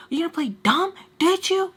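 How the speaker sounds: high, loud mock scream at him; retold scream. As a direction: scream it into his face. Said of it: "screaming in her face".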